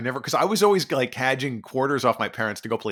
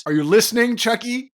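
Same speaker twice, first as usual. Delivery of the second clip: calling out; 8 semitones higher, 6 dB louder than usual. Acted. Calling out to Chuck E.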